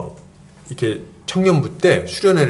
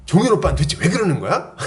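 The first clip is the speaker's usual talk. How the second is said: mock huffy complaint, a bit higher; retold indignant complaint; 4 semitones higher than usual. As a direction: imitate a miffed young woman griping to friends. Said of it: "이렇게 하면서 막 화가 난 거예요". (화난 자매를 살짝 흉내 내며 투덜대듯)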